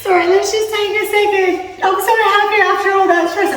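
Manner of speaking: a touch of a goofy sing-song voice; her silly voice. Acted. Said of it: "I don't know why I do this bloody voice".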